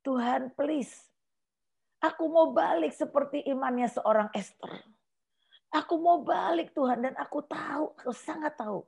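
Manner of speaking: soft, tearful plea to God; a hushed, tearful plea to God; tearful prayer. Retold or imitated. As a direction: pray quietly through tears, pleading. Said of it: "Terus saya nangis".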